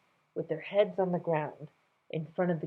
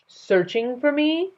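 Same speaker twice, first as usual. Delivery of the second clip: high, slow feigned surprise; mock surprise; 10 semitones higher, 7 dB louder, slower than usual. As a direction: act amazed.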